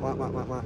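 low, soft engine wah-wahs; imitated uneven throttle. Coach to rider on inconsistent throttle, low engine imitation. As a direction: mimic a throttle going on and off. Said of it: "staying consistent with that throttle. Not".

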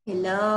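teacher models Hello with a rising end. Shown as a demonstration. Teacher drilling kids on greetings, clear rising Hello. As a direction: say Hello slowly, ending up. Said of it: "การพูดคำว่า".

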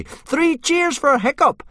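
high, loud and slow triumphant call; rousing cheer. Acted. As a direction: lead the crowd in a cheer. Boys cheering Hiccup.

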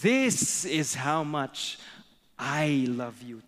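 father rabbit. Acted. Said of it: "towering over the little rabbit".

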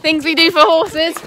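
panting, loud words after the climb; breathless and loud. Real, not acted. Owner out of breath after running up a hill, loud panting talk. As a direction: gasp it out after running uphill. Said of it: "that was a long hill".

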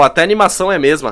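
ordinary delivery

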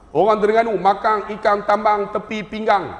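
ayat lazim dalam loghat Terengganu, diajuk ringan. Shown as a demonstration. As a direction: sebut macam orang Terengganu, sengau hujung "ng". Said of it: "Itu Terengganu". (ajuk loghat Terengganu)

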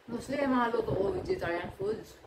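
chewing while talking; muffled food-filled speech; mouth full. Real, not acted. Seen 0: bites food at -4, jaw working, lips pursed while speaking.

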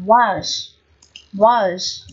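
"was" as "wahz", with an open A; strong form, A vowel. Shown as a demonstration. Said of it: "là âm á".

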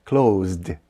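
"Closed" as "klohzd", E silent; one-syllable "Closed" with voiced ZD; short voiced D in CLOSED. Shown as a demonstration. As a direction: end "Closed" on a brief voiced D. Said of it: "D вимовляється як коротка D".

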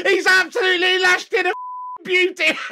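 fast, talking through laughter; laughing speech. Real, not acted. Fan laughing about the strike. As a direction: get the words out laughing.

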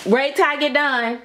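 firm repeat. Real, not acted. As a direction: insist they wait until you finish. Repeats it firmly to child.

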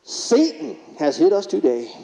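slow, mock-preacher proclamation; mock yell to heaven. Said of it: "he yelled into the heavens".

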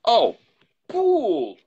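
a high, loud cry of the name; cried out. A narrator's reading. Lawyer crying out to the butler Poole, high and loud. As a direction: call out to him in sudden alarm. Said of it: "the lawyer cried".

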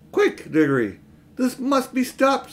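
put-on high urgent girl's voice; urgent and pleading. Polly urging, high.

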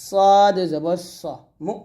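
slow sing-song letter-by-letter recital; spelling drill. Shown as a demonstration. Teacher spelling Arabic syllables aloud for students, sing-song drill. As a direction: chant each letter and vowel mark for the class.

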